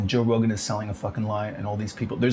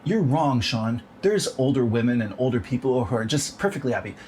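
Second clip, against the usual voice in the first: mock clickbait voice; 2 semitones higher than usual. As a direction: chirp it like a smug ad. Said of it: "clickbait thing that goes".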